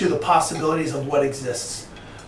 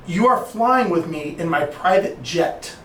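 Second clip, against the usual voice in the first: slow, deliberate mentor's words; pointed reminder; slower than usual. Retold or imitated. Mentor to mentee on his private jet, pointedly. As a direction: spell it out slowly, with weight.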